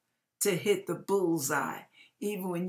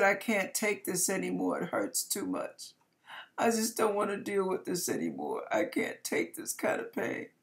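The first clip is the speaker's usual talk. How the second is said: tearful; 4 dB quieter than usual. Retold or imitated. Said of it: "through her tears".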